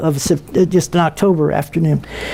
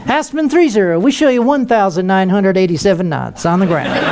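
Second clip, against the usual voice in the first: same controller voice. Retold or imitated. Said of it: "Center had to give you that same voice".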